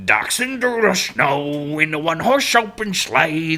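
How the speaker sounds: exaggerated cartoon Chicago accent. Shown as a demonstration. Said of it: "cartoon version of ... Chicago accent".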